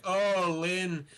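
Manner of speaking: drawn-out, high melodramatic wail; milk the agony, stretching the words; overly dramatic Alan Partridge. Retold or imitated. Wounded Alan Partridge to his assistant Lynn, overly dramatic. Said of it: "he's just overly dramatic".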